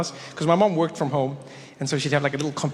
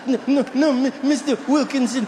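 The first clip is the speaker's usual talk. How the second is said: high, stammering mock-tearful child; hammed-up little boy choking out words between sobs; crying kid; 8 semitones higher than usual. Forgotten schoolboy reassuring his teacher, mock crying. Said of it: "ten years old again, just like".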